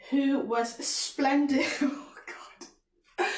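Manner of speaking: real laugh cutting off a reading. Real, not acted. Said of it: "I'm laughing because the word's".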